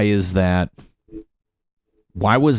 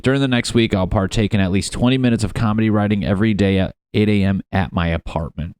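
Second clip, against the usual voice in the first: reading it out; faster than usual. Shown as a demonstration. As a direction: read the sentence out like a plan. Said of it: "I'll just fucking, I'll read it".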